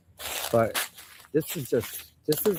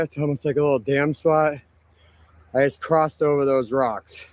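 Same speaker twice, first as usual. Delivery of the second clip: out of breath. Real, not acted. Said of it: "Sorry, I'm out of breath".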